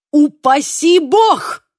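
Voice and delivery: shouted. A narrator's reading. Michał, down in the well, shouts in alarm at Marek, slow and loud. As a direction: cry out in horror, dragging it. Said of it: "выкрикнул Михал".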